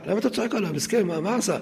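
retold cry of protest, pitch jumping up at the start; mock protest. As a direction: imitate a mother jumping to a child's defence. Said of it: "אתה זועקת".

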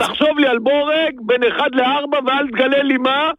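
exasperated, sarcastic rant; mock the customer in one long tirade; despairing sarcasm. Real, not acted. Seller mocking customer with a guessing game, despairing sarcasm. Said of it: "מיואש".

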